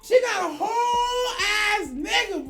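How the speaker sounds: stunned laugh-shout at the reveal; laughing disbelief. Real, not acted. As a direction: drag the words out while cracking up.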